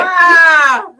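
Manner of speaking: startled yelp. Real, not acted. Startled by the freaky cat.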